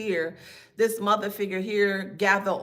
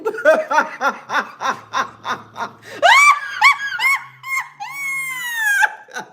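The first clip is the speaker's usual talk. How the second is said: high, loud, drawn-out cackling laugh; long shrieking laugh; 9 dB louder than usual. Real, not acted. Psychic laughing at a commenter's empty threats, long shrieking laugh. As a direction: laugh long and piercing, unable to stop.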